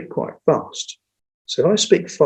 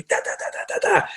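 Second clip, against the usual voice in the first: monotone drone demo; 7 dB quieter, faster than usual. Shown as a demonstration. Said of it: "Do that for five minutes, it's exhausting".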